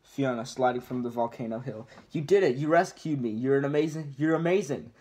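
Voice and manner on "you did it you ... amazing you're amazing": thrilled princess. Acted. Fiona thrilled at being rescued.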